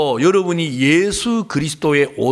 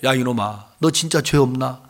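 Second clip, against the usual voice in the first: glaring mother; 7 semitones lower than usual. Retold or imitated. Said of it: "두 눈을 부릅뜨고".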